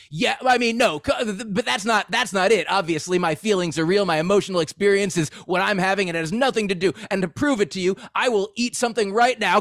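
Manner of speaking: whiny denial, insisting he's fine; cranky, snippy. Retold or imitated. Cranky boyfriend snaps at his girlfriend, high and defensive. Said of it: "if I was a little cranky or a little snippy".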